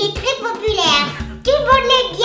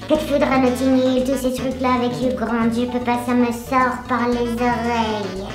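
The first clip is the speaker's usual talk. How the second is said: helium voice; 3 semitones lower than usual. Real, not acted. En inspirant l'hélium contenu dans des ballons.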